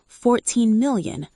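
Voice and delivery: slow, strained, choking on the words; choked out. A narrator's reading. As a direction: force it out past a tight throat. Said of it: "I choked out".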